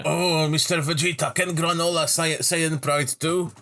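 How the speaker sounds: high-pitched parody of an admirer; high, hammed-up plea; mock eager questioner. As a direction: play a naive fan asking a hero. Acted fan question to Vegeta.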